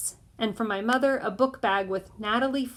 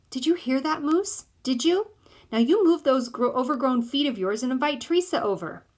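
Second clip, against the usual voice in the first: higher, eager urging; excited mother; 5 semitones higher, 3 dB louder than usual. A narrator's reading. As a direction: push him, delighted.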